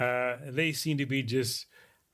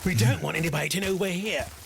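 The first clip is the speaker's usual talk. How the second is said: loud stage whisper; 4 semitones higher, 4 dB louder than usual. A character urges the others to keep quiet, in a loud whisper. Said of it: "she says in a very loud whisper".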